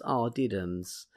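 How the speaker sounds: put-on slow baby-talk pity; mock sympathy. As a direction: coo it mockingly, slowly. Mocking landlords' complaints.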